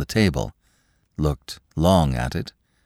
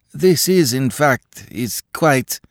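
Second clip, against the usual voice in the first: timid clerk; 9 semitones higher, 3 dB louder, slower than usual. Acted. Akaky's timid halting speech.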